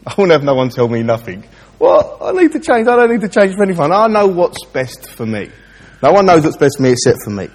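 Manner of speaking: a touch of his stubborn younger self; his old defiant self. Retold or imitated. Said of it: "I used to think that".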